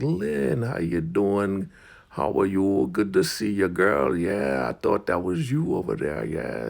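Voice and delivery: put-on high hello; gushing elder greeting. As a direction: imitate an elder greeting a girl effusively. Elder Marva greets Lynn effusively.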